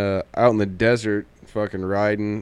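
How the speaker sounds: ordinary talk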